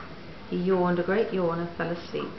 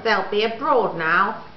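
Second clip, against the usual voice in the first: excited; 3 semitones higher, 6 dB louder than usual. Acted. Dog continues excited.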